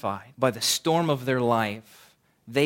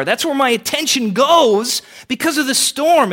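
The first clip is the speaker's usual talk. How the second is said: building preaching; 7 semitones higher, 5 dB louder than usual. Real, not acted. Preaching builds to full force.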